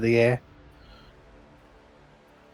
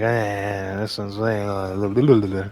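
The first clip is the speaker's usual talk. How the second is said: zombie; 4 semitones lower, slower than usual. Acted. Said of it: "Those are some zombie noises right there".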